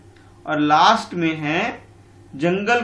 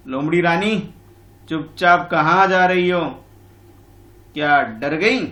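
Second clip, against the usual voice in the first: mocking fly; 5 dB louder, slower than usual. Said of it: "हमारी मक्खी बोल रही है".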